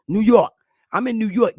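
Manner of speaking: a touch of New York local talk; New York accent. Shown as a demonstration. Speaker demonstrating local talk to listeners, New York accent. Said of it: "talking like a goddamn New York aborigine".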